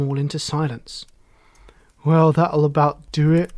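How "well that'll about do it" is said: louder, amused remark; a touch of laughter; mild amusement. A narrator's reading. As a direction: say it loudly, as if tickled. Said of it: "laughed Frog".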